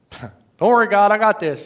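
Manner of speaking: high, cocky mock reply; acted-out overconfident believer; breezy self-assurance. Acts out person brushing God off.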